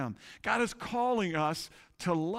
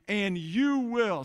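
"you will" louder and slower, held for the church to echo; call for response; 4 dB louder, slower than usual. Shown as a demonstration. Pastor prompting the congregation to repeat scripture, loud and slow. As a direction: draw out "you will" so they join in. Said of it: "say that with me".

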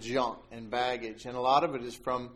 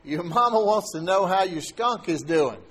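teasing laugh; 5 semitones higher, 7 dB louder than usual. Retold or imitated. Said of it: "and he's laughing".

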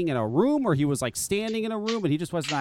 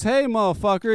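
higher mock challenge; imitated angry greeting; 4 semitones higher, 4 dB louder than usual. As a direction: mimic an upset man confronting someone. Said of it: "That's how he said it".

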